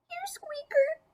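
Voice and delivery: high, breathy whisper calling the pet. Acted. Lucy softly calling her lost pet Squeaker, whispering.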